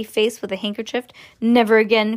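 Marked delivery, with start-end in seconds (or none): 1.4-2.2 loud, firm exclamation; emphatic cry. Acted. Mother crying out after the ride stops. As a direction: declare it with relief and vow. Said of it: "cried Missus T V".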